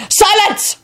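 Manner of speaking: high, sudden roar for silence; roared command. A narrator's reading. Warlock cutting off Neville, roared. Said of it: "roared the warlock".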